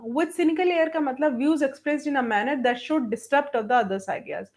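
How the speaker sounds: slow, spaced-out dictation voice, each word set apart. Acted. Teacher dictating an answer to students, slow and spaced. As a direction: read it out so students can write it down.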